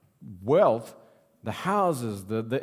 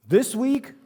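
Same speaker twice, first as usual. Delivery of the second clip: punchline; 10 semitones higher, 6 dB louder than usual. Retold or imitated. Punchline of joke.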